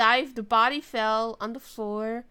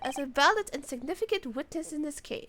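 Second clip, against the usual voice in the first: judge; 3 semitones higher than usual. Acted. Voices the judge's ruling.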